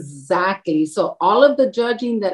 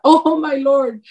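amused disbelief; 5 semitones higher, slower than usual. Retold or imitated. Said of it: "And I just thought".

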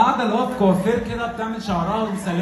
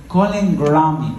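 slow, lower phone assistant voice; slow robotic Siri; 4 semitones lower, slower than usual. Retold or imitated. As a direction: sound like a snooty phone assistant. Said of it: "قالت لي".

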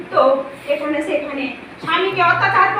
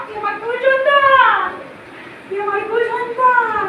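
put-on slow booming pronouncement to her child; 3 semitones higher, slower than usual. Goddess voice proclaims to devotee.

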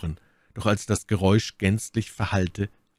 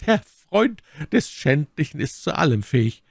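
raised, scornful lady's voice; indignant Milady; 9 semitones higher, 5 dB louder than usual. Acted. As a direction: condemn the villain in a high, emphatic tone.

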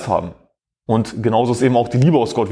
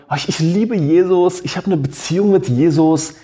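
mocking so-called Christian; 3 semitones higher than usual. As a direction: parody the pious talk of lukewarm believers, pitched up. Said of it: "sogenannte Christen daher und sagen".

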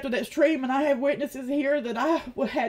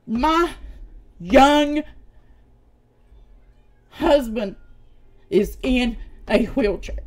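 loud, slow, insistent, each phrase set apart; desperate, angry insistence to the chat; pleading anger; 3 dB louder, slower than usual. Real, not acted. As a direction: make them hear it, word by word. Insists husband is disabled.

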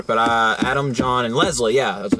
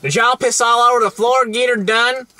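higher, louder imitation of a stranger; retold angry-guy quote; 11 semitones higher, 5 dB louder than usual. Retelling the guy who came up to them, imitated loud and high. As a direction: call it out as the other guy, pitched up. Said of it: "and he goes".

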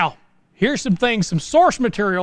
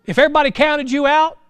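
rising preaching call; 8 semitones higher, 4 dB louder than usual. Real, not acted. Preaching to the counted out.

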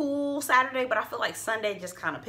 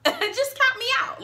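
laughing repeat; 4 dB louder than usual. Real, not acted. Repeating the dismissal aloud.

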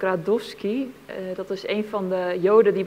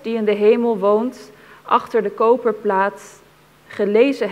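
solemn, measured poem reading with pauses between lines; poem recitation. Acted. Reader honouring a murdered witness in verse, solemn recitation. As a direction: recite it gravely, letting each phrase stand.

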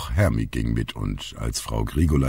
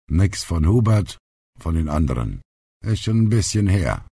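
put-on higher-pitched old grandpa voice; grandfather answering; 6 semitones higher, 3 dB louder than usual. A narrator's reading. Grandpa answers the aunt about missing post, matter-of-fact character voice. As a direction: give the news plainly as grandpa.

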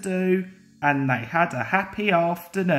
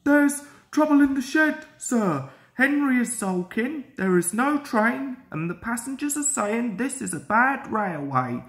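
worried; 5 semitones higher than usual. Acted. Station master bursting in to warn Sir Topham Hatt, worried and hurried. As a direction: rush it out like worried news. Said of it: "looking worried".

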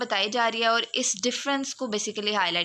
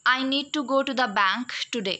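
"bank" made the prominent word; stress on BANK; much slower than usual. Shown as a demonstration. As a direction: put the weight on "bank". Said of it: "बैंक पर जो है वो जोर डालेंगे". ("bank" पर ज़ोर)

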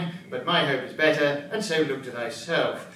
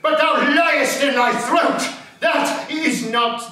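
mock challenge; 9 semitones higher, 3 dB louder than usual. Reading out the insult.

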